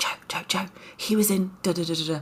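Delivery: quiet whispered voice. Retelling nudging a partner while spotting actors in a film: imitating her own whispering. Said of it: "I am whispering in Joe's ear".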